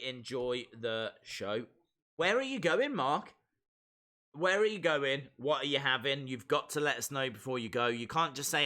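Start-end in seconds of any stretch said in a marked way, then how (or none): 2.2-6.3 playful demanding. Real, not acted. Teasing friend leaving.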